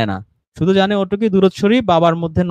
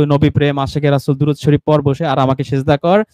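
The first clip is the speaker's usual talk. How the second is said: imitating the pir; 4 semitones lower than usual. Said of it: "ওই বাবা এসে মনে করেন".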